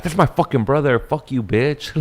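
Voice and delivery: hammed-up sister defending her brother; imitating angry sister. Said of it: "'cause you're like".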